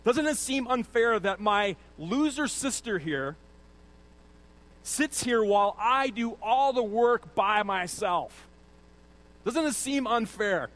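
slow, whining indignation; mock grievance. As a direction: drag out the complaint like an aggrieved sister. Martha's complaint acted out.

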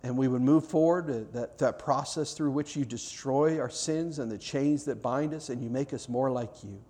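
earnest pastoral prayer voice; closing prayer. Acted. Pastor praying over the congregation at the close, earnest prayer. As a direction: pray it over the room, sincere and unhurried.

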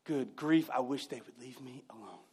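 weary sigh. Retold or imitated. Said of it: "Can you imagine?".

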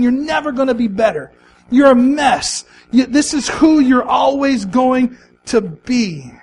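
mock inner scream. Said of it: "just screaming".

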